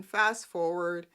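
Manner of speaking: normal talking voice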